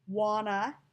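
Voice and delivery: "Wanna" as one word, no T; run-together wanna. Shown as a demonstration. Teacher spelling out the dialect, "Wanna" with no T. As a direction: blend want to into "Wanna". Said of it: "using the Texan accent".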